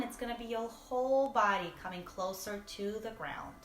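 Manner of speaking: measured meditation voice with breathing pauses; guided meditation. Real, not acted. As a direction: coax the body along with the breath.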